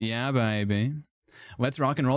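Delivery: seductive, sultry manner of speaking. Imitating Austin Powers saying everything seductively: Austin Powers impression. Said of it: "he says it like he's, like, trying to seduce you".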